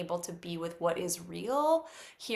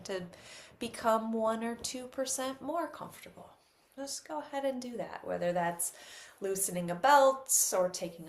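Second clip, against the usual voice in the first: softer, unhurried instructions with long pauses; guided meditation; 3 dB quieter than usual. Real, not acted. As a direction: gently guide listeners into settling the body.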